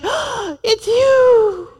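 breathless adoring "it's you"; dreamy gasp of delight. Pretend. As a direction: swoon over your spouse at dawn.

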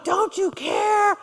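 high, slow, hurt accusation; mock accusing cry. Preacher imitating a person going off on him, mock anguished. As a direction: wail the accusation like a wounded friend. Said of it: "They're like".

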